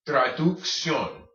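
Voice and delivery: traducción said slowly, K then S; slow model word. Shown as a demonstration. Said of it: "K sound first, then your S sound".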